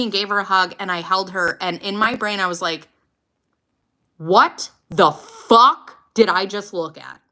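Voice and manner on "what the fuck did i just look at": stunned inner thought. Retold or imitated. Shocked inner thought about daughter's eye.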